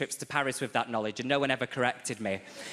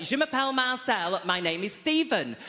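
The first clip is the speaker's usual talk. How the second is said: exasperated reply; 6 semitones higher than usual. Retold or imitated. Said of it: "I was like".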